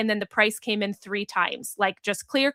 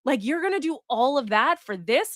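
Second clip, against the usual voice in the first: put-on incredulous old self; 3 semitones higher than usual. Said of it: "the old me would have been like".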